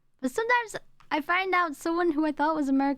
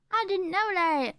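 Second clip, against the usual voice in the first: surprised; 6 semitones higher than usual. Real, not acted. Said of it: "Oh, I didn't know that".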